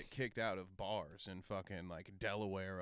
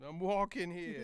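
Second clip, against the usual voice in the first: raised-pitch movie-line imitation; Dustin Hoffman; 5 semitones higher than usual. Quoting a film to co-host, light actor impression. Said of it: "Dustin Hoffman".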